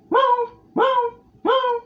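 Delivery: very high forced meow; Gary meow. Shown as a demonstration. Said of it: "kinda forcing out the meow".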